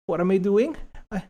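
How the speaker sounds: hammed-up lovestruck servant; mock-devoted suitor begging to help. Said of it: "with impromptu voice acting".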